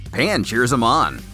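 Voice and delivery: ordinary delivery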